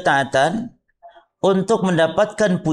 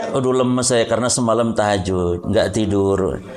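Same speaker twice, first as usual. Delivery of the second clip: lower, sighing voice fishing for praise; feigned weakness; 7 semitones lower than usual. Retold or imitated. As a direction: groan about being tired so others notice. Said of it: "jadi dia".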